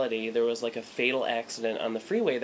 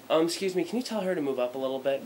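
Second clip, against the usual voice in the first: polite request; 5 semitones higher, faster than usual. Retold or imitated. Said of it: "let me be polite".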